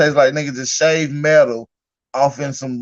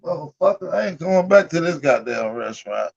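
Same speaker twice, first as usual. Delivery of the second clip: mock yell; 3 semitones higher, 3 dB quieter than usual. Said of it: "You said".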